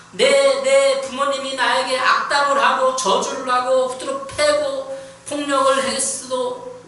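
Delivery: forceful preaching. Acted. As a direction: preach it hard, high and loud.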